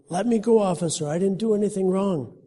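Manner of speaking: protesting man. A narrator's reading. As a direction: struggle against the grip. Homeless man lifted by officer.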